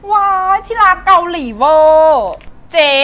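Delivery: high, slow, loud over-the-top squeal of delight; gushing squeal. Acted. Friend squealing over red lipstick, hammed-up delight. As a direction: squeal it like a giddy fan.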